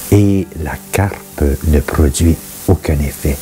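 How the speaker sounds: measured recitation with pauses between phrases; solemn scripture reading. Acted. Reading Ecclesiastes aloud for listeners to reflect on, measured scripture reading. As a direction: read it as sacred verse, phrase by phrase.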